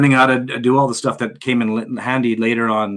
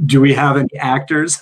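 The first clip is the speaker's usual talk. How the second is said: raised, louder echo of the question; playfully put-on questioning; mock querying; 3 semitones higher, 4 dB louder than usual. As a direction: toss the question out to the room. Echoing caller's question in retold phone call.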